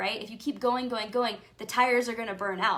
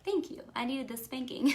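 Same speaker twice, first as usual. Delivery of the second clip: wry mock gratitude; 3 semitones higher, 3 dB quieter than usual. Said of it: "and I'm like".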